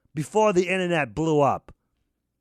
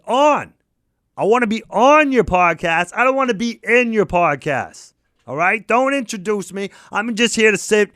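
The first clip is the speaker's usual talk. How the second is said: loud refusal; 4 dB louder than usual. Acted. Refusing to be a guest on the podcast, loud and insistent. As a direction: insist you are only there to listen.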